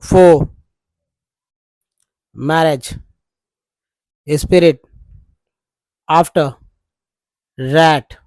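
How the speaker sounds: for, marriage, spirit, after, rat with the r dropped or light; non-rhotic English reading. Shown as a demonstration. Teacher reading the word list to students, r left silent. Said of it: "इसको पढ़िए".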